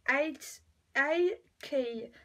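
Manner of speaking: English letters with a French accent. Real, not acted. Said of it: "Désolée pour mon accent anglais". (anglais avec un accent français)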